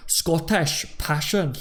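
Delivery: drawn-out mock-Scottish; slow, hammed-up Scottish burr attempt; Scottish accent. Shown as a demonstration. Trying the Kilted impression for viewers, rough Scottish accent. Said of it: "let me try and do the impression".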